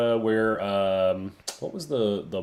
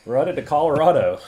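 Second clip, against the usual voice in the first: laughing; 4 semitones higher, 5 dB louder than usual. Real, not acted. Host laughs announcing.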